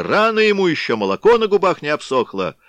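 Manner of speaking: loud, high mocking shout; scornful yell; crowd shouting. A narrator's reading. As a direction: jeer it over the crowd. Rival faction shouting over the crowd.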